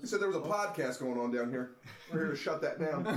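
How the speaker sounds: lightly voiced stand-up comic; a hint of a comedian impression; Dane Cook. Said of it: "Why did you just sound like Dane Cook?".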